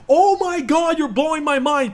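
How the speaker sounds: high, loud disbelief; exasperated outburst. Real, not acted. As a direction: throw up your hands in disbelief. Exasperated at viewers.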